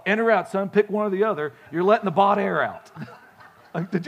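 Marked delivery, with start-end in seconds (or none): 0.0-2.9 retold yell. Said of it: "my dad would yell".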